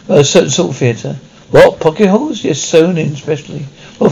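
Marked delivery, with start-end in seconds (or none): 1.5-2.4 a sharp, startled What then Pocket holes rising high; startled disbelief. Acted. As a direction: caught off guard, echoing the words back.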